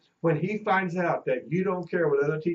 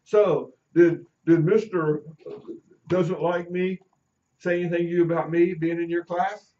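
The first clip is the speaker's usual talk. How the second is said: lightly voiced student, louder and halting; mock student questioning; 5 dB louder than usual. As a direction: stumble loudly into a kid's wary question. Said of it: "this little chipmunk says".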